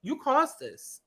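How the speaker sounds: imitating a high scolding friend; high mock scolding. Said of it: "it's like".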